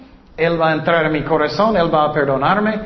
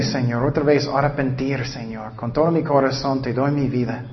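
prayer. Acted. Preacher leading the congregation in prayer. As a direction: pray it humbly before the congregation.

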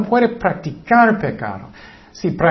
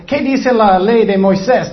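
louder, higher accusing demand; mildly raised voice imitating an angry crowd; retold shouting; 4 semitones higher, 5 dB louder than usual. Pharisees confronting Jesus over the woman, mock shouted demand. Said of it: "estaban gritando".

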